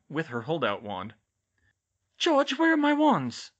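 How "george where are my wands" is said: high, loud, drawn-out demand; urgent. A narrator's reading. Hermione finding her wands missing, urgent demand to George. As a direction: demand it urgently, voice pitched right up. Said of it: "she said urgently".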